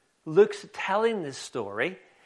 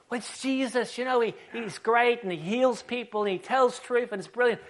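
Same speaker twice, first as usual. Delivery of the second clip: high, gushing explanation; acted breathless enthusiasm, pitched up; eager beggar; 5 semitones higher than usual. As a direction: enthuse to a friend about a hero. Acted beggar enthusing to his friend.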